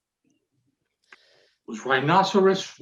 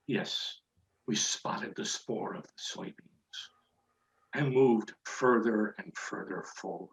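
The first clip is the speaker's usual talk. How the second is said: hushed stalking; 2 semitones lower, 7 dB quieter than usual. A narrator's reading. Stalking prey in suspense story.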